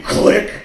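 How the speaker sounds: a sharp, loud spoken click of a slammed phone; loud mock click. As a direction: snap out the hang-up noise. Imitating phone hang-up.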